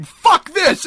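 high, loud mock scream; imitated scream. Podcaster imitating a woman running out the door, screaming. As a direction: yell it like a panicked exit. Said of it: "you can hear her scream".

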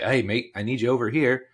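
put-on light, uncertain Australian accent; attempted Australian accent. English soccer organiser calling a player over, shaky attempt at Australian accent. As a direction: have a half-hearted go at an Australian accent. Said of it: "was that an Australian accent".

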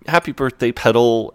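high-pitched, lightly acted motherly greeting; doting birthday greeting. Mum greets Will at breakfast, lightly voiced doting.

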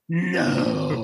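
long, drawn-out no; stunned disbelief. Retold or imitated. Fan seeing the green lightsaber, stunned disbelief. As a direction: stretch it out in mock disbelief.

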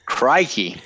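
one-word Aussie exclamation; mock Australian. Co-host drops a mock Australian exclamation. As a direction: say it like a cartoon Aussie. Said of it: "that, again, is not the right country".

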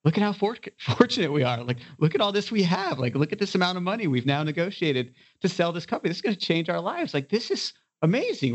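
high-pitched, amazed excitement, retold; rally a worn-out partner with sudden joy; elated pep talk. Retold pep talk to stressed CFO.

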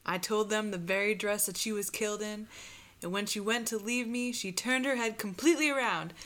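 loud, quick, insistent testimony; Mary Heister. Acted. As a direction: press the story on urgently. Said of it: "Anna Marie, Mary Heister".

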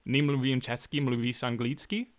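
rehearsed tourist Czech; traveler's attempt at Czech sounds; imitating a Czech accent. Shown as a demonstration. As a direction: reel off a memorized Czech phrase. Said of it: "went totally unhinged with Czech".

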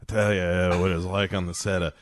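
reminiscing film star, lightly imitated; Paul Newman. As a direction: ease into a mild impression of a storytelling actor. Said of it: "Newman is like".

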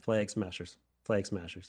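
Wisconsin accent on "Flag", broad flat a; "Flag" said with a Wisconsin vowel; own Wisconsin accent. Real, not acted. Host repeating the group name in his Wisconsin accent. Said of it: "making fun of my Wisconsin accent".

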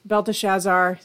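Belteshazzar said as bel-teh-SHAZ-zar, clearly spelled out; correct pronunciation. Shown as a demonstration. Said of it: "Yeah, that's true".

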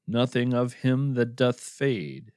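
slow, measured verse reading; unhurried poetry reading; poem recital. Acted. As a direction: lightly intone the old verse. Recites Shakespeare verse as postscript.

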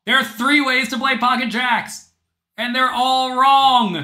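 booming, high, slow villain proclamation; unhinged villain. Pretend. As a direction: roar the punchline like a madman. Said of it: "I'm gonna tell you my joke".

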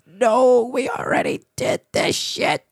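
exasperated. Retold or imitated. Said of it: "And we're just like".

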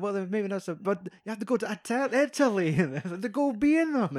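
hammed-up pleading, rising to the end; whiny Rick. Rick whines about going to Italy, high mock whine. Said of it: "He's like".

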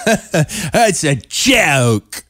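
high, drawn-out fake British accent; mock British accent. Host mocking the singer's worst attempt, fake British accent. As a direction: stretch every word in a hammed-up British accent. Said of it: "What kind of an accent is that?".

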